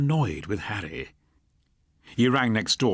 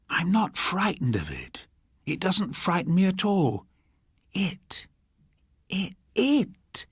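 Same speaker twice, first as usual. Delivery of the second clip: higher, lightly voiced old woman, uneasy then rising; an old woman insisting she isn't afraid, climbing higher on "it"; 8 semitones higher, slower than usual.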